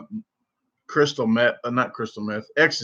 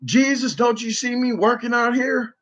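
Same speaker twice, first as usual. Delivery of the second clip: imitating the neighbour; 9 semitones higher than usual. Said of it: "then she'd be like".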